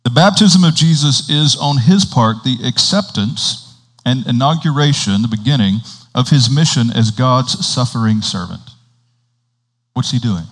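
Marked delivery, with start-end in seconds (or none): 0.0-8.6 measured reading with breaks between phrases; slow reading. Real, not acted. Preacher reading a Catechism paragraph to the congregation, slow reading. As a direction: read aloud deliberately, phrase by phrase. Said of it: "we'll read it a couple times slowly".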